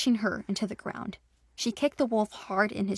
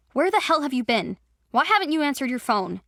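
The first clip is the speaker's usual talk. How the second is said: raised, scolding cousin; annoyed older brother; 4 semitones higher, 4 dB louder than usual. Acted. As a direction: tell her off like a worried big brother. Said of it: "sounded like an annoyed older brother".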